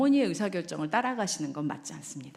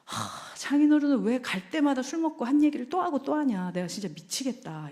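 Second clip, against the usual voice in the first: exasperated husband; 5 semitones higher than usual. Retold or imitated. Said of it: "형제가 처가에 갔다 오면서 말하죠".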